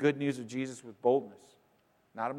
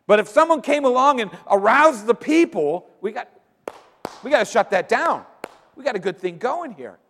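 mock leaders' alarm; 7 semitones higher, 7 dB louder than usual. Voicing the leaders' worry.

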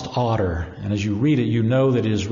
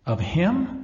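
murmured in wonder; 7 semitones higher, slower than usual. Acted. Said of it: "murmured the rat".

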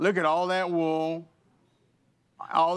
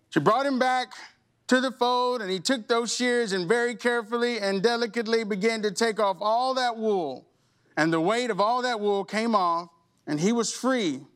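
higher, brighter storytelling climax; uplifting; 5 semitones higher than usual. Acted. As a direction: lift the voice toward the rescue.

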